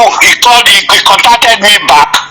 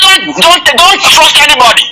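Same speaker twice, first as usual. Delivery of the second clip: retold insistent warning, pitched higher; vociferous; 5 semitones higher than usual. Retelling the minister's warning about trust, vociferous. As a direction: imitate a vehement warning in a raised pitch. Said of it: "He was too vociferous".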